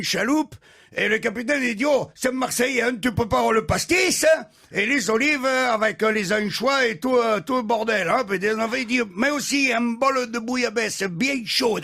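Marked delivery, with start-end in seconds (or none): 1.9-11.8 higher, lively Marseille banter; captain excited about pastis and bouillabaisse; excited boasting. Acted. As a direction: list the treats with gusto. Captain excited, Marseille accent play.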